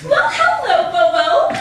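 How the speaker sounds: high, bright mock-sweet hello; a chirpy, high hello; sweet greeting.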